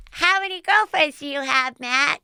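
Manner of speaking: put-on high, childlike piping question; little kid asking. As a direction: ask it like a curious six-year-old. Kids asking Bachelor Matt.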